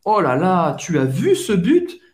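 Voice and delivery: lively, swooping exclamation with rising question; excited. Shown as a demonstration. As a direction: gush like a fan after a great goal. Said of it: "você mais se empolga". (empolgado com um golaço)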